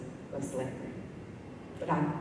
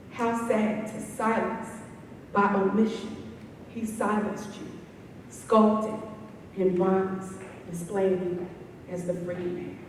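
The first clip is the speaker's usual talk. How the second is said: subdued poem ending; 4 semitones higher than usual. Acted. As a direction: let the last phrases drop away, spaced by pauses. Poem closes, fading down.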